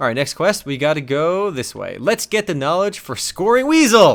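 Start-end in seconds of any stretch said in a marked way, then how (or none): 2.0-4.2 eager, genuinely keen, excited, pitched-up delivery. Playing a game, announcing the next quest to the viewers, excited. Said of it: "I can't believe I sound excited saying that".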